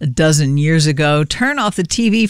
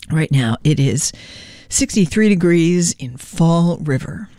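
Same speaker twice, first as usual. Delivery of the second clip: throat rough from a cough; holding back a cough while speaking; hoarse from coughing. Real, not acted. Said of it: "Can't stop coughing".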